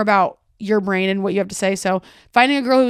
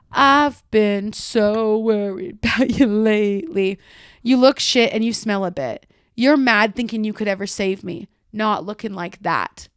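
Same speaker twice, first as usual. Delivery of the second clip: backhanded concern; slower than usual. Retold or imitated. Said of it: "then she said, and then in quotes".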